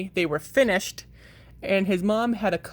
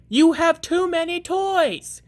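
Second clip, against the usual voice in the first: high, loud scolding; fed-up mother scolding her son; 10 semitones higher, 5 dB louder than usual. Acted. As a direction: tell him off from the stairs.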